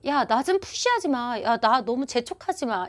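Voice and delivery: mildly acted irritated reply; a touch of a pushed friend's annoyance. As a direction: brush someone off lightly. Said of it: "이렇게 얘기하는".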